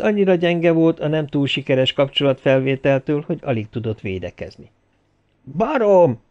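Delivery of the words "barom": high, loud furious yell; roaring. A narrator's reading. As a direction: bellow the insult at him. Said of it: "üvöltötte Tilford".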